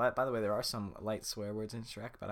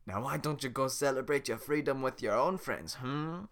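higher louder pointed hint; dismissive Shrek; 4 semitones higher, 7 dB louder than usual. Acted. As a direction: nudge him away pointedly. Shrek shooing Donkey.

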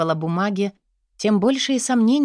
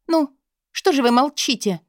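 higher, louder taunting question; defiant challenge; 6 semitones higher, 3 dB louder than usual. Acted. Scared Katya challenging her boss, defiant and higher. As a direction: dare him to answer. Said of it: "с вызовом".

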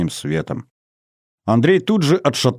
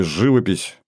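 "живопись" with final syllable stressed, живопИсь; stress on last syllable. A narrator's reading. Narrator quoting his joke, "живопись" stressed on final -пись. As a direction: say "живопись" leaning on the ending -пись. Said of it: "я сделал ударение на последний слог".

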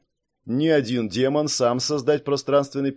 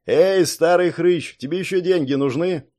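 loud call; 5 semitones higher, 4 dB louder than usual. Acted. Lins pounding on door.

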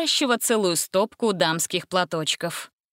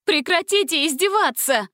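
much higher cry; shouting; 9 semitones higher, 3 dB louder than usual. A narrator's reading. Gretel shouts at the singing vampire, much higher. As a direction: yell at him to stop. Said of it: "закричала Гретель".

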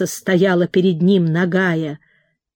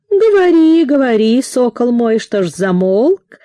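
babbling flame; 4 semitones higher, 4 dB louder than usual. Acted. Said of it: "пролепетало пламя".

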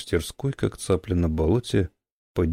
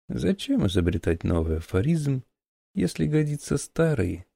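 put-on very old man; 7 semitones higher than usual.

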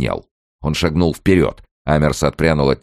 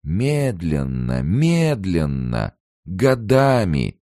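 slow taunting; 7 semitones higher, slower than usual. A narrator's reading. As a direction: drag out each word slowly. Kern taunts Amers slowly.

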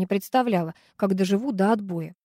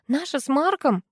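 annoyed; 6 semitones higher than usual. A narrator's reading. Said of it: "рассердилась я".

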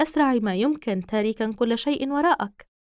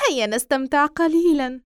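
higher, louder taunting doll; creepy doll voice; 4 semitones higher, 4 dB louder than usual. Acted. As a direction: tease like a sinister toy.

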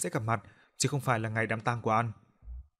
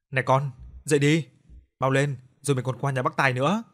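mother calling her daughter awake, louder; loud call to hurry her up; 5 dB louder than usual. Acted. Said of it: "tiếng kêu của bà Nga". (mẹ gọi con dậy, to tiếng)

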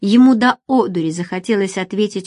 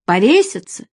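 louder, annoyed bark; irritated man barks at his lover; irritated snap; 4 dB louder than usual. Acted. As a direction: snap it back at her. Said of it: "рявкнул он раздражённо".

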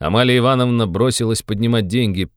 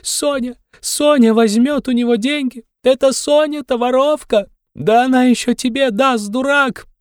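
hysterical shrieking; 3 dB louder than usual. A narrator's reading. Katerina keeps shrieking at Luzhin.

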